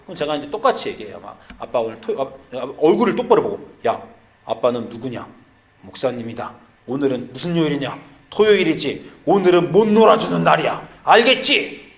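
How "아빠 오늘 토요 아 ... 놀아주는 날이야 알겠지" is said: stern dad lecture. Retold or imitated. Pastor to his young son, a firm lecturing dad voice. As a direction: lay down the rule to the boy, getting louder.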